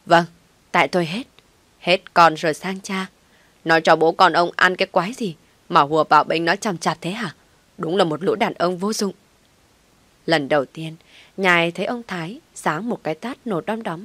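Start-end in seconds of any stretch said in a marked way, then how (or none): 0.0-9.1 loud bitter yell; furious wife ranting, louder; screaming. Acted. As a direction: hurl sarcasm loudly. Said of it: "Bà Tâm lại gào lên".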